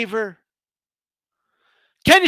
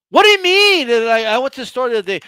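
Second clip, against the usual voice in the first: mock yelling customer; 3 dB louder, faster than usual. A Walmart customer yelling at an employee, mock outraged. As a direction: yell it at the worker like an outraged customer. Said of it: "you're just yelling at somebody".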